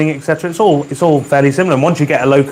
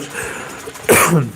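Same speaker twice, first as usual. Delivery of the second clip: throat clearing; 3 semitones higher, 3 dB quieter than usual. Real, not acted. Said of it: "Sorry if I'm just coughing".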